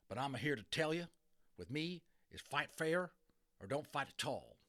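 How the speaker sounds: lightly voiced tough cowboy; cowboy challenge. Cowboy challenges Little Bear.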